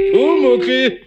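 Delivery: calling out Pumuckl, high and loud. Acted. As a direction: call across the workshop for Pumuckl. Calls for the kobold. (Pumuckl laut und hoch rufen)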